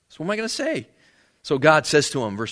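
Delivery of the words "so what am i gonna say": afraid Moses. Retold or imitated. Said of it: "he's afraid".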